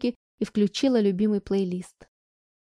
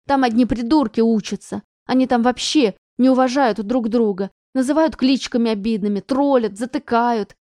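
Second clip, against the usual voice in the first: angry rant; 6 dB louder than usual. Acted. Anya ranting at mother.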